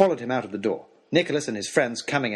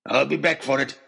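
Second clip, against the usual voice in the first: parting threat. A narrator's reading.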